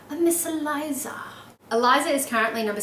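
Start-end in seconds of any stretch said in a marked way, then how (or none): 0.1-1.1 put-on raised, fussy old gentleman's voice; imitating Sir William Lucas. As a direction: do a pompous Regency gentleman. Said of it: "when he's like".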